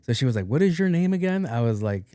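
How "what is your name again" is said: high-voiced, oblivious question; mimicked doctor. Doctor asking the only patient's name, high mimicry. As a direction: imitate her asking in a raised pitch.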